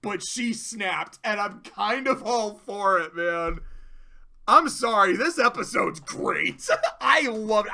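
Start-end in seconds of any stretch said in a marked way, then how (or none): 4.5-7.7 excited. Real, not acted. Gushing about the episode.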